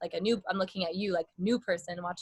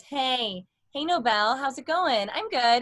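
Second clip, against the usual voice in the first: blend in chest voice; 3 semitones higher, slower than usual. Shown as a demonstration. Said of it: "blend in some chest voice".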